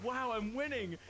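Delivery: mock triumph. Gleeful retold race moment.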